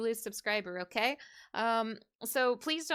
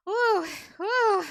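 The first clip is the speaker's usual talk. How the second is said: excited ooh; 8 semitones higher, 7 dB louder than usual. Real, not acted. Reacting to hard fight.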